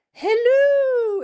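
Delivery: very high, loud, long-held hooting greeting; Mrs. Doubtfire. Acted. Host hailing the chat, high drawn-out character greeting. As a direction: trill it out in falsetto, stretched long. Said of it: "Is that like Missus Doubtfire?".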